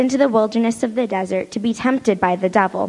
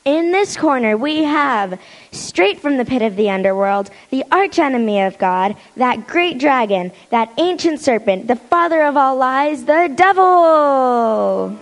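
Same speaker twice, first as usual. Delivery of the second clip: ring announcer; 2 semitones higher than usual. Acted. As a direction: stretch out the villain's name. Boxing ring announcer introduction.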